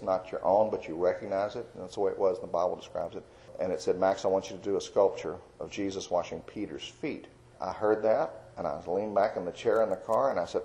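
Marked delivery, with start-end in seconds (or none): 4.0-7.3 still small voice. Retold or imitated. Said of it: "He spoke in a still small voice".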